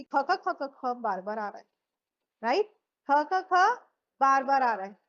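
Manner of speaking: ख repeated, each ख punched; stressing the kh. Shown as a demonstration. Teacher to class, stressing the repeated ख. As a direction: hit each ख sound. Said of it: "याद क्यों हो गया?".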